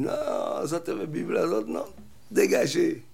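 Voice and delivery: high, loud shooing voice; angry lady at the door, yelling them away; chasing them off. Retold or imitated. Householder chasing missionaries away.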